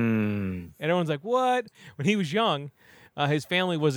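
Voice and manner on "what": high shocked what; hammed-up disbelief; mock shock. Everyone hearing Speckles is the bad guy, high shocked cry.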